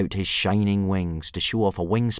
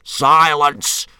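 high, loud, forceful cut-off; loud silencing order; 9 semitones higher, 11 dB louder than usual. A narrator's reading. Instructor cutting off the boy's explanation, loudly. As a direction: shut them up with one burst. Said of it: "said Gobber in a very loud whisper".

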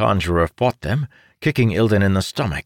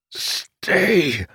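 shouted command; 10 semitones higher than usual. Acted. Battle command in fight.

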